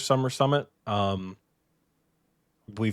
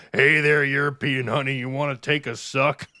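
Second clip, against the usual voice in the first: creepy bearded man; 3 semitones higher than usual. Pretend. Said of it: "this giant bearded deep voice man walked up to you with a backpack and goes".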